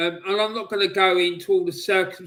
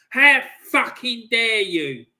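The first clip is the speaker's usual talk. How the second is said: outraged; 2 semitones higher, 5 dB louder than usual. Real, not acted. Fan rages at disrespecters.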